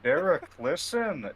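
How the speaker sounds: high, slow, loud call; insistent call. Real, not acted. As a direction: firmly demand his attention. Trying to get Derek's attention.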